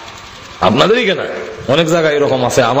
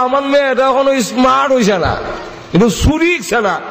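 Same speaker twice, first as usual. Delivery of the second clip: scolding mother; 10 semitones higher, 3 dB quieter than usual. Retold or imitated. Mother scolds daughter in story.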